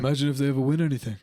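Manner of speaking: quick, lightly voiced mock pundit; half-hearted impression, rattled off quickly; badly faked scornful pundit; Roy Keane. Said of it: "a bad Roy Keane impression".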